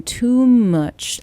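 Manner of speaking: TOO MUCH run together, the m closing too like "tomb"; linked as tomb. Shown as a demonstration. Coach showing connected words, too much said like tomb. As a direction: say too much joined up as "toom-uch". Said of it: "as if you're saying tomb".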